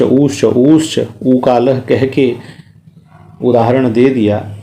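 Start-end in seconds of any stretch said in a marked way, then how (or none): 0.0-2.3 ऊश्च repeated slowly, each ऊ stretched longer; slow ऊश्च demo. Shown as a demonstration. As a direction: draw out ऊश्च to show vowel length. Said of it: "केवल उन्होंने ऊश्च". (ऊश्च को धीरे-धीरे लंबा करके बोलना)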